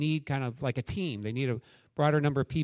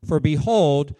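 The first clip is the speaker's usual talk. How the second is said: louder, measured Bible reading; scripture reading; 4 dB louder than usual. Acted. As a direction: proclaim the passage to the church. Reads Luke twenty-four aloud.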